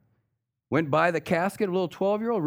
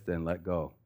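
voice from heaven; 7 semitones lower, 7 dB quieter than usual. Retold or imitated. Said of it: "The voice says".

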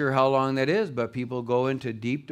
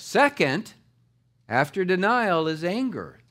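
usual speaking voice

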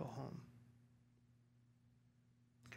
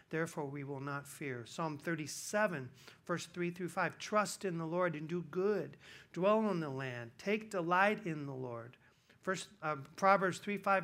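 scripture reading; 3 semitones higher, 5 dB louder than usual. Acted. Preacher reads scripture aloud.

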